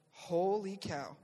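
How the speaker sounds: slow, stretched holy cow; awestruck. Retold or imitated. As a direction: let the amazement sink in slowly. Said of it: "And it was like".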